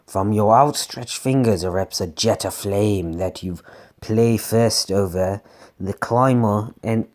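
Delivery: low, slightly evil storytelling voice; lightly sinister low read; evil narrator. Acted. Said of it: "God, I'm changing voices ... I guess I went evil".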